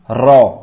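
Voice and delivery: रॉ with a long rolled r. Shown as a demonstration. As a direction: roll the tongue into a slow, isolated रॉ. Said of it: "जीभ आपकी roll up कर रही है".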